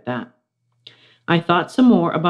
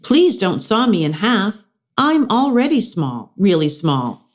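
higher, scared pleading; pleading hamster; 4 semitones higher than usual. Acted. Hamster begging the magician, mildly scared and high. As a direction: beg small and frightened.

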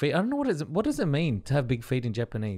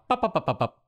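quick run of popping snips; playful snip-snip noise; imitated snipping sound; 3 semitones higher than usual. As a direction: pop each one like cutting laces. Mimes cutting laces with scissors.

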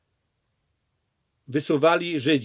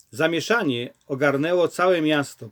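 usual speaking voice

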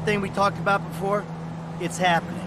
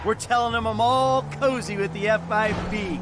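exasperated anger; 7 semitones higher than usual. Acted. Michael angry at the agent's plan.

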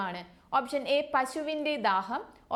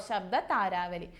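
ശബ്ദതാരാവലി said slowly and lower, each syllable clear; slow repeat; 5 semitones lower, slower than usual. Shown as a demonstration. Teacher repeats the right answer for students, slowly. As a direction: spell out ശബ്ദതാരാവലി slowly for the class. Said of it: "ശബ്ദതാരാവലിയാണ് ട്ടോ".

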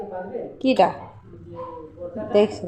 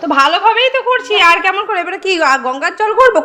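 laughing; 6 semitones higher, 3 dB louder than usual. Real, not acted. Mother laughing, teasing retort.

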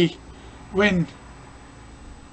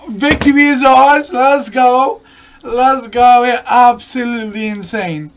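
excited celebrating; 3 semitones higher, 5 dB louder than usual. Real, not acted. Celebrating the win.

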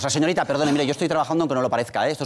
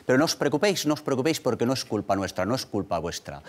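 sinking gradually softer and lower; reassuring; 3 semitones lower, 4 dB quieter, faster than usual. Acted. Host telling the audience not to worry, reassuring. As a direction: soothe the audience, letting the voice drop away.

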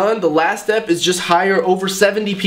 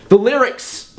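too high pitched; 6 semitones higher, slower than usual. Real, not acted. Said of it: "That was too high pitched".

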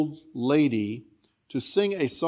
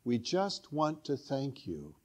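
soft translation; 7 dB quieter, slower than usual. Shown as a demonstration. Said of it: "It translates".

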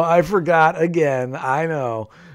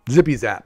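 Zippy zap said louder as a mock elevator noise; Zippy zap, a playful louder elevator noise; elevator sound; 5 dB louder than usual. Shown as a demonstration. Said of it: "that's the sound that elevators make".

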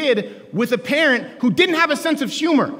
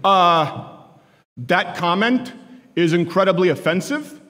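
a slow, stiff, disapproving dad; stern dad lecture; 4 semitones lower than usual. Retold or imitated. Dad in the front seat scolding Stephen, slow and stiff. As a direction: lecture the boy in a measured, prim tone. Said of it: "and he goes".

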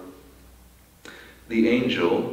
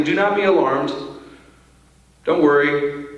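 matter-of-fact angel. Pretend. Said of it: "very matter-of-factly".

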